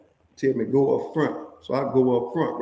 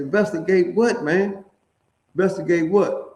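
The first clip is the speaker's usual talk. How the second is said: raised, incredulous "investigate what?"; pitched-up mock outrage; indignant protest; 5 semitones higher, 4 dB louder than usual. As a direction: push back in disbelief at the guards. Confronted by guards, protesting.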